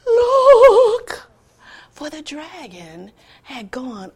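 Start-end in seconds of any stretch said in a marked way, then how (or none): 0.0-1.3 high, loud call; excited nephew. Acted. Nephew pointing at the rising dragon, excited. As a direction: shout and point up. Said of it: "the nephew said".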